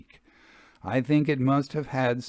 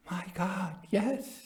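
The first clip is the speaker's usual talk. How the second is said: hushed, softer awed gasp of words; low voice; 9 semitones higher, 6 dB quieter, slower than usual. Acted. Jasper answering at the apparition: hushed and awed. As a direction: breathe it out in dread. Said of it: "said Jasper in a low voice".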